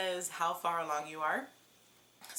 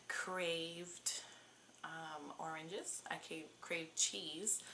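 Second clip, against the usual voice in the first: whisper; 6 dB quieter, much slower than usual. Real, not acted. Confiding cravings.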